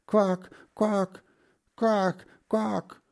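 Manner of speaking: high-pitched repeated quacks; constant quacking. A narrator's reading. Duck circles above her young, quacking constantly. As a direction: quack on and on from the air. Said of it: "sie quakte dauernd".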